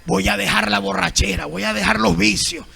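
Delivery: low, hushed, awed voice of a humble listener; a touched churchgoer, gently acted; humble believer moved by the word. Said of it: "el orgulloso no dice".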